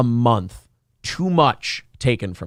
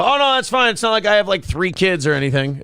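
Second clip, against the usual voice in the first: guilt-tripping deer voice; 4 semitones higher than usual. Pretend. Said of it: "they go".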